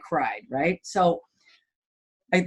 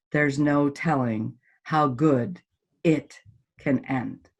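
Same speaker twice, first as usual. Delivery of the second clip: slow emphasis; 4 semitones lower, much slower than usual. Real, not acted. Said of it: "closing line slowed".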